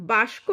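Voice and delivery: বাস্ক said with the স before the ক, as বাস-ক; swapped consonants. Shown as a demonstration. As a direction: say বাস্ক with the s and k flipped. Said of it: "না বলে".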